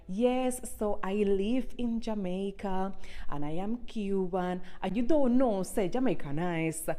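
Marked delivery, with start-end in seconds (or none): 0.1-4.6 softer, careful standard English; a prim, polite intro voice; proper English voice. Retold or imitated. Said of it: "me start my videos like".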